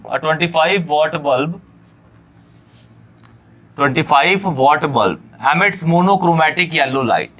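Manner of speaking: reading out the question word by word, slowly; slow dictation pace for the class. Shown as a demonstration. Teacher reading the question to students, slow dictation.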